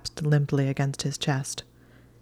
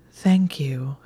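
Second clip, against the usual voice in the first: whispering. Acted. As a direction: breathe the thanks. Drowsy gratitude.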